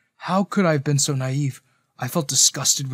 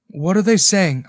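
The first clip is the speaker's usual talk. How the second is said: anxious, raised voice; worried; 5 semitones higher, 6 dB louder than usual. A narrator's reading. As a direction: ask with rising worry. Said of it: "worry etched on my face".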